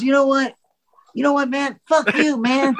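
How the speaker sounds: finally snapping back at a teaser; mock defiant outburst. Ed finally telling Matt off, mock anger. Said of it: "he goes".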